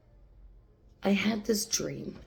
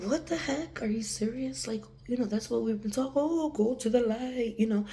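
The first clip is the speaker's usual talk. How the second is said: incredulous; 5 semitones higher than usual. Retold or imitated. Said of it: "And I was like".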